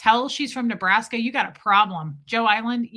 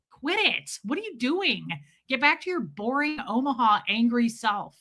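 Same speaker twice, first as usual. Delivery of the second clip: mock self-scolding; 3 semitones higher than usual. Traveler tells herself off for copying, mock self-scolding. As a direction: scold yourself in mock dismay.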